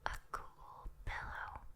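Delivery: very soft whisper with long pauses; lulling whisper. Acted. Demon at the bedside lulling a human, whispering. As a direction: whisper them gently towards sleep.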